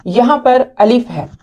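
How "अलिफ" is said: teacher saying अलिफ without stretching it; short alif. Shown as a demonstration. Teacher shows a student the short अलिफ. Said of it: "इसको हम लंबा करके नहीं पढ़ेंगे".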